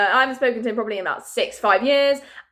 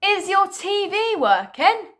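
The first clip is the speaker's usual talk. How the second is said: high, slow, baffled reread of the text; incredulous reread; 8 semitones higher, slower than usual. Shown as a demonstration. Rereading her friend's odd text in disbelief. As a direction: read it back like it makes no sense.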